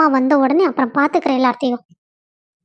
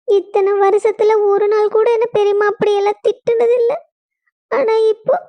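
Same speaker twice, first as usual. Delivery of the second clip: higher, tearful voice, nearly crying; tearful complaint; 4 semitones higher than usual. Acted. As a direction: complain to mother through held-back tears. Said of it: "எதுக்குடி இப்படி அழுதுகிட்டு வர்ற?". (அழுகையுடன் புகார்)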